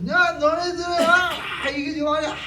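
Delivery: lightly voiced stern elder; elder scolding. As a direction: wag a finger at the kids and scold them. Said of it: "막 혼내셨대요".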